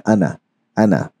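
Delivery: अना said short, no long a; अना, alif dropped; short ana. Shown as a demonstration. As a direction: clip the vowel of अना short. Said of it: "इसको हमेशा पढ़ा जाएगा".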